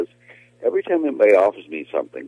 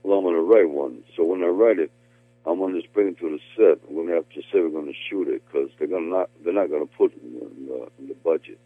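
lightly done Stallone voice; a hint of Sylvester Stallone; Sly impression. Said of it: "the Sly impression, you do it very well".

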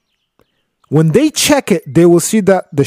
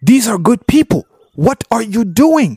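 shocked outcry; 7 semitones higher than usual. Retold or imitated. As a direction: cry out in disbelief at the damage. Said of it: "So Moses is like".

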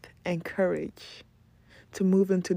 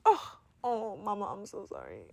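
soft, hushed sorry; acted sheepish remorse, very soft; contrite apology; 10 dB quieter than usual. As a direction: let it sink into a small, guilty apology. Acts out contrite apology to mama.

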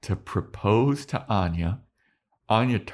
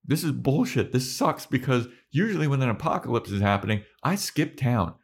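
lightly raised, rambling panic; mock Anya; 5 semitones higher than usual. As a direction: babble nervously in a slightly higher voice. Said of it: "And she's like".

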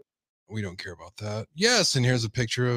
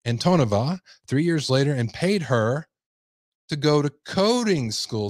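emphatic news-story read; projected article narration; 3 semitones higher than usual. Acted. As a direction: read out the report like a newscaster.

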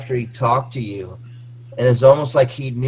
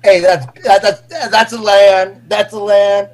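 cheering a land; 4 semitones higher, 6 dB louder than usual. Retold or imitated. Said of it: "hearing you say".

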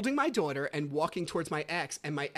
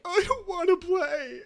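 put-on high, loud whiny little boy; whining child; 5 dB louder than usual. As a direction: imitate a kid whining in protest. Voicing his reluctant young son.

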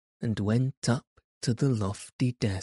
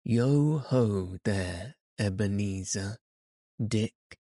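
a lightly voiced jovial old boss; fat jovial voice. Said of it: "in a comfortable, oily, rich, fat, jovial voice".

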